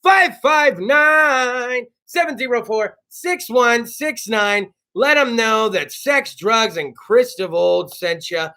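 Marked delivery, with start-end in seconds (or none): 0.0-4.7 slow, spelled-out repeat. Shown as a demonstration. Host repeating the phone number for listeners, slow and emphatic. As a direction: read the number slowly so they can write it down. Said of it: "repeats number deliberately".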